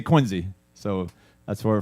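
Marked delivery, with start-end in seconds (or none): 0.0-0.5 "Quincy" with a z sound, KWIN-zee; local pronunciation. Shown as a demonstration. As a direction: say "Quincy" the hometown way, as QUIN-zee. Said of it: "but we say Quincy".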